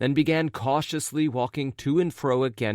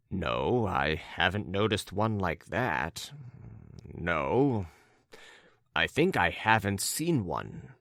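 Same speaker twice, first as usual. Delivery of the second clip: put-on low-pitched, hesitant young character; puzzled young man; 3 semitones lower, slower than usual. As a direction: answer slowly, low and reserved.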